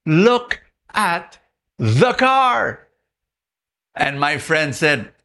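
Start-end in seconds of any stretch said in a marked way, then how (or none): 0.0-2.9 voice of God. Acted. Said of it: "the whisper of God".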